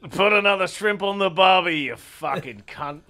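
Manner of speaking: exaggerated Australian catchphrase delivery; mock Australian accent. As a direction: put on a bad Australian accent. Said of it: "Nobody gets it right".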